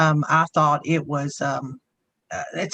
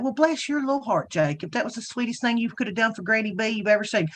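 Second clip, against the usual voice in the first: sweet Southern praise; 5 semitones higher than usual. Retold or imitated. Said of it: "be like".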